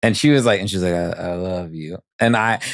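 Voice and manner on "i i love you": slow, softer drowsy "I, I love you"; imitating someone half-asleep from anesthesia; mock groggy mumble. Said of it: "She was coming out of anesthesia".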